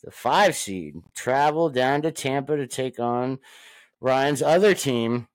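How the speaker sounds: game preview intro, punched key words; sports announcer. Acted. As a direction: hype up the matchup, stretching team names.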